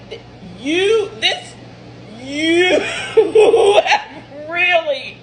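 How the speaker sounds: breaks into high, helpless laughter mid-sentence; can't get the words out for laughing; laughing in disbelief. Real, not acted. Mother accused on camera, laughing in disbelief.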